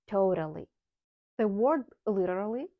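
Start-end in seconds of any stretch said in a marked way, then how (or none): 0.1-0.7 "totally" with "O" as in "go" and a flapped T. Shown as a demonstration. Teacher modelling the word after explaining it, "totally" with flapped T. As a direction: tap the second T lightly in "totally". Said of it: "and flap T".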